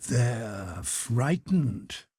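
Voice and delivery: hoarse and confidential. A narrator's reading. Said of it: "he said confidentially in a hoarse voice".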